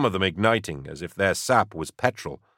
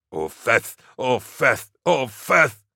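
panicked repeating; 5 semitones higher, 3 dB louder, slower than usual. A narrator's reading. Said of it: "Larkin repeated over and over".

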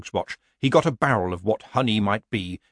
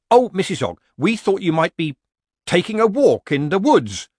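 higher, louder villager voice playing innocent; nervous villager; 8 semitones higher, 6 dB louder than usual. A narrator's reading. Villager pretending innocence to Nanny Ogg. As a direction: feign surprise like a bad amateur actor.

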